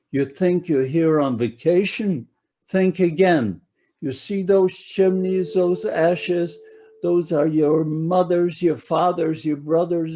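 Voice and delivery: a harsh Polish barracks elder yelling threats at Hungarian Jews; menacing block chief. Retold or imitated. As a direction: bark it down at the new arrivals like a cruel barracks chief. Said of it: "he talks to us in a broken German".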